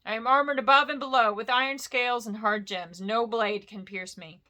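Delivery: a touch of a haughty dragon boast; proud dragon. Acted. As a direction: lord it over the hobbit. Smaug boasting.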